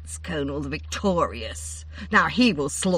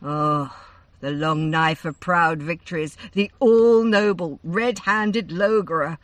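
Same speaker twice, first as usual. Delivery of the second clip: name the dreaded hero with dread; grim; 8 dB louder than usual. A narrator's reading. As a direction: Maeve grimly naming the approaching warrior. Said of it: "answered Maeve grimly".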